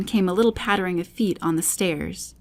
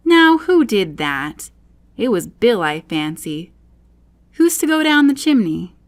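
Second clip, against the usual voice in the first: loud demand; 2 semitones higher, 6 dB louder than usual. Acted. Rabbit demanding after the crash.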